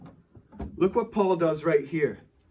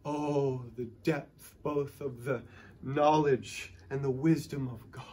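awe; 3 semitones lower, 5 dB quieter than usual. Retold or imitated. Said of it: "he just breaks out into".

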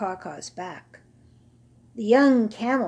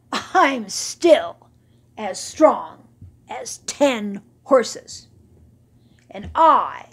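slow, loud, puffed-up; proud boast; 5 dB louder, slower than usual. Acted. Old camel boasting to admirers, slow and proud. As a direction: brag to the young camels.

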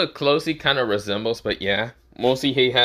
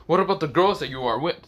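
frantic; faster than usual. Acted. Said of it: "Drake said in an insane".

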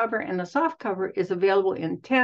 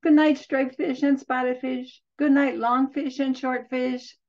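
high, carrying call; 5 semitones higher than usual. Acted. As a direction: call out to the fish. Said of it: "she called".

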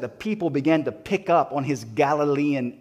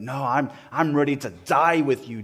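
firm retold vow, louder than the lines around it; bold proclamation; 4 dB louder than usual. Peter vowing loyalty to Jesus, bold proclamation. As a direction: declare it with bravado. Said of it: "Peter boldly proclaimed".

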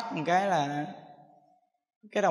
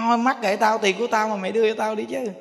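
higher, louder angry insistence; angry demand; 5 semitones higher, 4 dB louder than usual. Retold or imitated. Old mother angrily demanding her money back from her children, loud and high.

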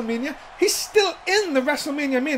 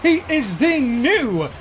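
slow drawn-out ring intro; ring announcer; slower than usual. Acted. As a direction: stretch the name out like an arena announcer. Introduces the champion.

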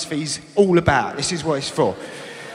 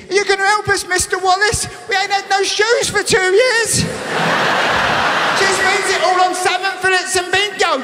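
mock kids pleading; 10 semitones higher than usual. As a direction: beg Mister Wallace like neglected kids. Voicing the kids.

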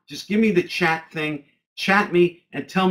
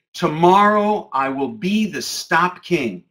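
slow affirmation; 4 dB louder, slower than usual. Shown as a demonstration. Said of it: "the next sentence would be".

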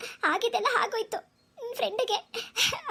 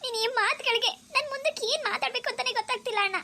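crying; 4 semitones higher than usual. Acted. Sister overwhelmed by brother's words.

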